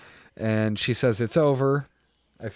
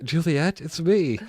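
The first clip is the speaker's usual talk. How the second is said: higher, tearful quote; choked-up retelling; 6 semitones higher, slower than usual. Retold or imitated. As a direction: quote it while close to crying. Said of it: "I'm gonna cry".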